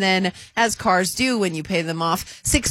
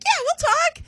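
imitating Josh; slower than usual. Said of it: "Josh was like".

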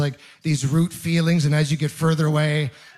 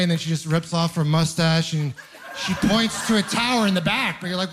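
ordinary talk

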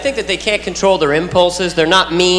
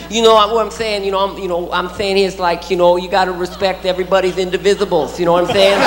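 lightly lisped boxer impression; Mike Tyson. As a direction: imitate a boxer straining for big words. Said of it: "I love Mike Tyson. I love listening".

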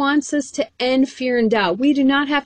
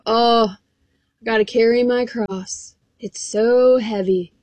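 mock complaining; slower than usual. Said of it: "People talk about all the time".

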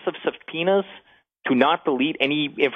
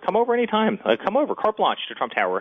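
eager invitation; 8 semitones higher than usual. Retold or imitated. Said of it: "my immediate response is".

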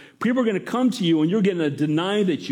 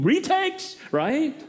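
mock squeal; 10 semitones higher, much slower than usual. Mock vain demand.

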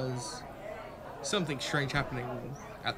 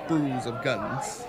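slow reading in a put-on German accent; halting German-accented label reading; much slower than usual. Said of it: "I don't know why I decided on this accent".

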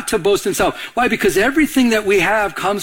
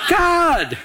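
triumphant reveal; 11 semitones higher than usual. Real, not acted. Answers his own riddle triumphantly.

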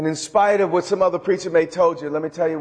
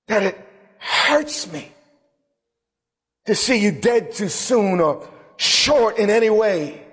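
voice of God; 4 semitones higher than usual. Retold or imitated. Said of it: "His response in my heart was".

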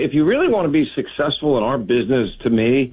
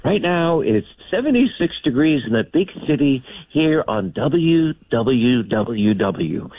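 radio DJ voice. Retold or imitated. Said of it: "I thought I had to sound like a radio guy".

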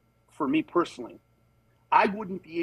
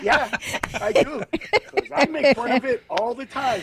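cheeky reply; 7 semitones higher than usual. Retold or imitated. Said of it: "I was like".

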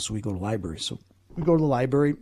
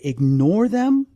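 firm fatherly order; 7 semitones higher, 6 dB louder, much slower than usual. Retold or imitated. Dad tells son to ignore ghosts.

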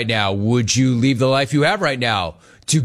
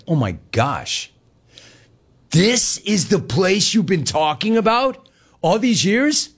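lightly voiced wife, rising higher in dismay; Janet's shocked reaction; 5 semitones higher than usual. Wife Janet sees his old college town, mildly appalled. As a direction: imitate sweet Janet, a touch appalled. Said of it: "is like".

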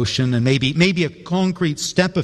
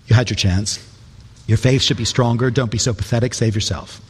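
mock harsh rebuke; 3 semitones lower than usual. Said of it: "No, that's not what he says".

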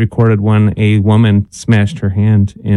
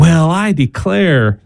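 slow, playful Southern drawl on "declare"; southern accent; 4 semitones higher, much slower than usual. Pretend. Host trying old sayings in a mock Southern accent. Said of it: "Why is your voice getting southern sounding?".

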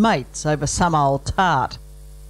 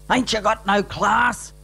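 indignant; 4 semitones higher than usual. Acted. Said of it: "Stan roared in indignation".

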